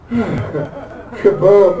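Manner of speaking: sigh, then a mock explosion; weary kaboom tag; kaboom sound effect. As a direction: drop it like a deflated punchline. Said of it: "I just do the kaboom".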